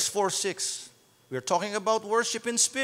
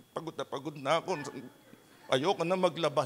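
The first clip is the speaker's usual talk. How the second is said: weary complaint; 8 semitones lower, 7 dB quieter, faster than usual. Acted. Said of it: "Hindi yung".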